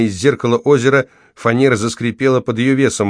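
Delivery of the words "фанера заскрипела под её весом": ordinary delivery, nothing marked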